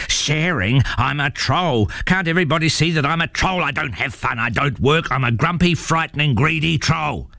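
high, indignant troll rant; snarling troll. A narrator's reading. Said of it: "snarled Algy".

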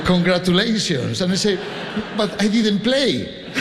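high-pitched, laughing mock bewilderment; amused protest. Conductor retelling congratulations for Spain's win, amused high protest.

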